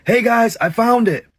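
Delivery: calling out high to the crew; a mild yell, pitched well up. A narrator's reading. Worker calling the crew over at the jungle's edge, yelling out. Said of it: "he yells out".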